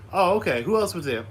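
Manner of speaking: put-on dad quizzing his toddler about his day, upbeat and high; dad talking to toddler. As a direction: ask it brightly like to a little kid.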